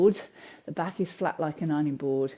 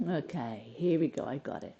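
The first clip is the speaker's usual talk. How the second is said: balancing on one leg; 3 semitones lower, 5 dB quieter than usual. Real, not acted. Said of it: "I'm losing my balance".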